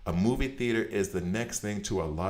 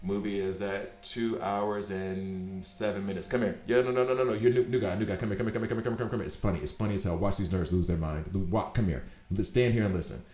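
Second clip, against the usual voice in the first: excited movie attendant calling a new coworker over; lightly voiced theater attendant hurrying a new guy over; attendants imitation. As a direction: wave the new guy in, eager to show him. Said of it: "the attendants outside must be used".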